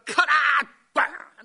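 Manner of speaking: loud, high furious teacher yell; angry yell. Retold or imitated. Teacher yells when the boy stretches his legs. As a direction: roar at the pupil.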